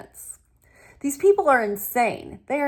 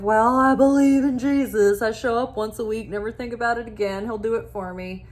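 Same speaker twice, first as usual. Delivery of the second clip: lazy Christian mock; faster than usual.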